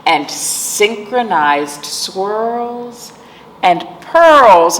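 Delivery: slow, gentle bedtime storybook reading; reading to children. Acted. Librarian reading a bedtime book to children, slow and gentle. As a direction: lull the little listeners toward sleep.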